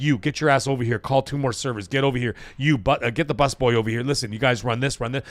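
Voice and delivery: unruffled, matter-of-fact orders; calm in command. Retold or imitated. Executive chef to servers amid chaos, calm in command. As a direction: reenact directing staff without raising your voice. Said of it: "I'm totally calm".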